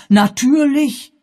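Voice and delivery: natürlich! viel höher, langsam gedehnt ausgerufen; natürlich! hoch und gedehnt, plötzlich begreifend; erregter Ausruf. Acted. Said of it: "rief er nun seinerseits". (Pennyfather begreift, aufgeregter Ausruf)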